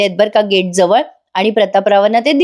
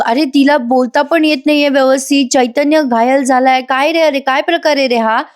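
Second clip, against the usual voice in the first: alarmed questioning; 5 semitones higher than usual. Acted. Worried father demands answers.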